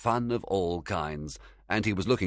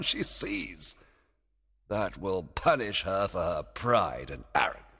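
hushed plotting that swells high, then drops; scheming Oberon; 5 semitones higher than usual. A narrator's reading. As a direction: relish the trick, rising in glee. Oberon gleefully plots his trick.

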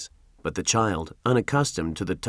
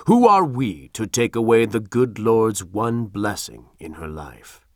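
a hint of earnest pleading; powerful trembling voice. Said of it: "in his powerful, trembling voice".

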